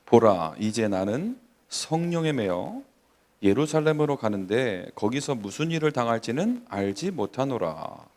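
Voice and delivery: measured, formal reading of a Bible verse; solemn recitation with drawn-out phrase endings; scripture reading. Acted. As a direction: read the apostle's words aloud to a congregation. Reads scripture aloud.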